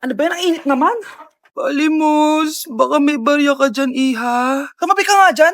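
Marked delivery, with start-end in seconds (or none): 1.6-4.7 pleading beggar. Acted. Beggar asking for coins.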